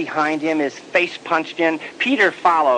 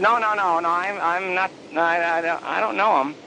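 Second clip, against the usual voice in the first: nervous denial; 4 semitones higher than usual. Acted. Peter denying nervously.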